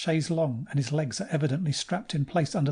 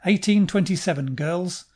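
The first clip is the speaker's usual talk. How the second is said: loud, beaming announcement; proud pilot shouting the win; triumphant; 4 semitones higher, 6 dB louder than usual. Acted. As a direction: crow it with a wide smile. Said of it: "with a wide smile of triumph".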